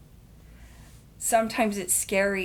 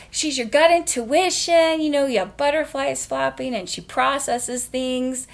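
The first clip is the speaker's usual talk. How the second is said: pitched-up, louder, eager pitch of the new idea; 5 semitones higher, 5 dB louder than usual. Retold or imitated. Pitching her character idea to clients, high and eager. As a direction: sell it like a brilliant discovery. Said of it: "I'm like".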